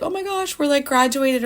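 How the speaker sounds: put-on high, gushing valley girl squeal; mock excited classmates. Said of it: "everyone's like".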